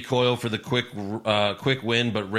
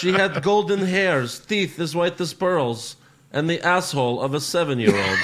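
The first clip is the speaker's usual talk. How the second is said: put-on Bulgarian accent; 4 semitones higher than usual. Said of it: "he's Borat".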